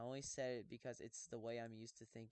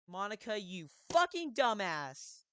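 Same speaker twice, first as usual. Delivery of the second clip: slow, loud ogre bellow; 6 semitones higher, 11 dB louder than usual. Pretend. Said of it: "the ogre voice".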